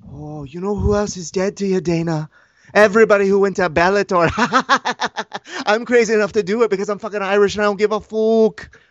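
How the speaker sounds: lightly voiced cocky Irish fighter; mocking Conor McGregor. Fighter taunting his promoter in a lightly voiced cocky tone. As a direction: sneer back at the boss.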